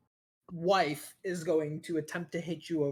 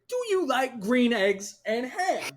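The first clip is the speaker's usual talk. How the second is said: high, loud singsong; eerie rhyme voice; 7 semitones higher, 6 dB louder than usual. Acted. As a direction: ask it like a haunting storybook voice. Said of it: "And then you just hear".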